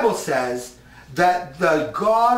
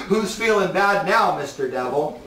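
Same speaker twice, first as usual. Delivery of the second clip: gleeful taunting shout. Acted. Preacher taunting the devil before his congregation, gleeful shout.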